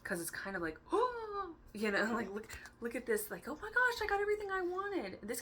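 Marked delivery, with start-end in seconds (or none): 0.8-1.7 high sharp gasp of delight; excited gasp. Acted. 3.5-5.2 high, loud, overjoyed squeal; thrilled kid. Pretend. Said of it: "like a little kid in a candy store".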